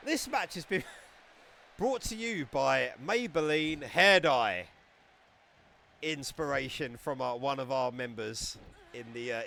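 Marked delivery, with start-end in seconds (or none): 0.1-4.7 mock sponsor announcer. Mock sponsor read for the match.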